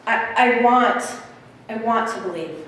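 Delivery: mild hesitant stammer; halting little boy, unsure of himself. Acted. Little boy answering the hobo, mild stammer. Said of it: "he stammers and he says".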